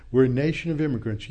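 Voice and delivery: rattled off fast, like a worn-out slogan; fast dismissive parroting of a cliché; weary mocking quote. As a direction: toss it off quickly, fed up with hearing it. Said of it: "Ad infinitum, ad nauseum".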